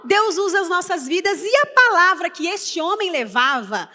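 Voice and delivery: ordinary delivery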